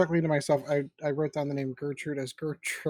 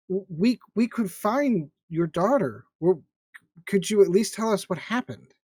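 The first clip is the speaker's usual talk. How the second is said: persuasive; 3 semitones higher, 3 dB louder than usual. Acted. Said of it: "try to be a little bit more persuasive".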